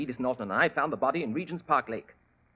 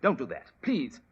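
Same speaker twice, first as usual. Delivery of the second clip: higher, louder frightened protest; panicked plea; 5 semitones higher, 4 dB louder, slower than usual. Acted. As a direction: beg them not to call the police. Caught suspect begs.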